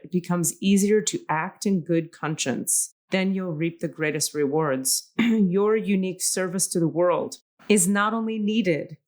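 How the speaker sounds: measured oracle reading voice; card reading. Shown as a demonstration. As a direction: read the card aloud, unhurried. Reads oracle card text aloud.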